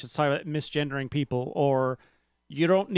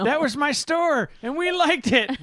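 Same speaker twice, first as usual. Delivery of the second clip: put-on old man voice; 10 semitones higher, 4 dB louder than usual. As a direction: play a grumpy grandpa reminiscing. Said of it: "She loves my old man voice".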